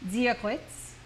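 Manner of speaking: DIA with a soft, z-like D, GLITZ like gwits. Shown as a demonstration. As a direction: start DIA on a soft buzzing D. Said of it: "it's a soft D sound".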